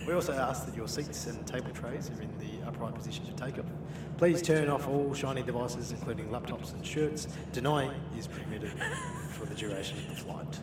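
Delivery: a light airline captain announcement; pilot voice. Pretend. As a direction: lightly play the captain on the intercom. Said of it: "Your best pilot voice".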